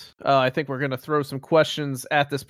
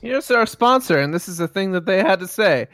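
announcer voice; 5 semitones higher, 4 dB louder than usual. Acted. Announcing a fake ad.

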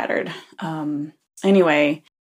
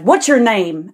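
loud mock-indignant demand; upset man; 3 semitones higher, 5 dB louder than usual. Teller mimics man demanding the girl's name, upset. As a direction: imitate an affronted man demanding answers. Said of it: "he starts getting upset".

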